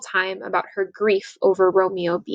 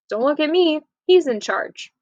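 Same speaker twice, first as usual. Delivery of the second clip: high, offhand brush-off; a hint of a mother washing her hands; mother refusing to take sides; dismissive mom; 6 semitones higher than usual. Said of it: "her mom says".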